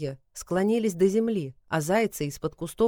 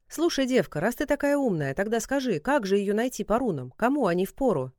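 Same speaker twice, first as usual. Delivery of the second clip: mocking; 4 semitones higher than usual. Kalidar mocks Sasha.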